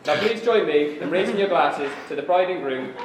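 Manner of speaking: formal best man's toast; wedding speech. Real, not acted. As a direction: raise your voice for the toast.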